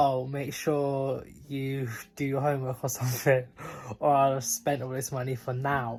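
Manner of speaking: normal talking voice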